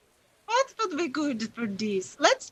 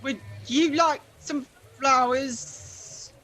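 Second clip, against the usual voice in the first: slower, gentler repeat of the offer; slow flower seller; slower than usual. Acted. Flower seller spotting the party, slow gentle offer. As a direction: lean in and offer the flowers slowly. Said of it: "she kind of goes".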